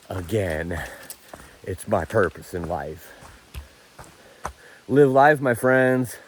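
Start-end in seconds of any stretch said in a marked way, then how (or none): 4.9-6.2 loud sign-off. Real, not acted. Emotional sign-off to viewers.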